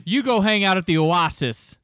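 "Oasis" said as oh-AH-sis; mock mispronunciation. Co-host playing along with the pronunciation joke, "Oasis" as oh-AH-sis. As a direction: put an AH in the middle of "Oasis". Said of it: "your basis for that pronunciation".

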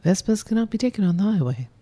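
announcer voice; radio ad voice. Acted. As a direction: deliver it like a radio ad. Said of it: "Do that again".

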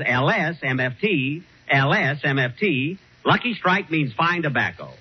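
slow, deliberate commercial read; ad slogan read. Shown as a demonstration. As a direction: spell the letters out like a radio announcer. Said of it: "All you have to say is".

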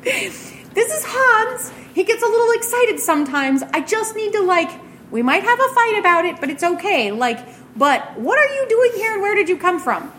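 high squeaky little creature, protesting fast; small creature voice. Acted. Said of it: "a much smaller voice".

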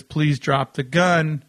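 slow, measured request; unhurried, firm command at normal volume; clear, polite order. Retold or imitated. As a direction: retell an officer's deliberate instruction, slowly. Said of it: "he clearly then identifies himself".

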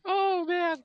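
high, squeaky laughter through the words; can barely talk for laughing; laughing hard. Real, not acted. Cracking up at the joke.

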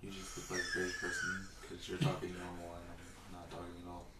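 whisper yelling. Real, not acted. Whisper-argues with partner.

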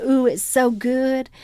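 soft, slow, indulgent sigh; a touch of hushed flesh craving; flesh man savoring. Retold or imitated. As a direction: savor it slowly, a bit hushed. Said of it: "my flesh man said".

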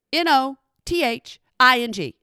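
N O T H I N G, each letter said separately; spelled out letter by letter. Shown as a demonstration. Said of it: "spelling it out".

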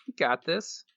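whispered encouragement. Real, not acted. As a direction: lean in and whisper it.

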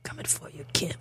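menacing whisper. Pretend. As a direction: breathe it like a hitman closing in. Mock threat to the dictator.

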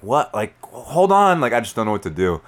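high, loud burst of confusion; frantic disbelief. Retold or imitated. Dazed crash victim flagging down traffic, frantic and loud. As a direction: re-enact a stunned, frantic outburst.

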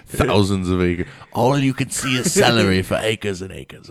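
slow, drawled farmer accent, lightly put on; celery farmer accent. Joking about a celery farmer, in a slow put-on farmer accent. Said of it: "I don't know why he had that accent".

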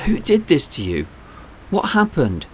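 worried, rising questions; concerned. A narrator's reading. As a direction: ask with sudden concern for the boy. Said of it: "suddenly concerned".

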